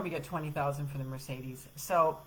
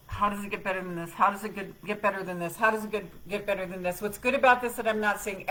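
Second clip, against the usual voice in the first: self-talk mantra; 4 dB louder than usual. Retold or imitated. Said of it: "and I just go".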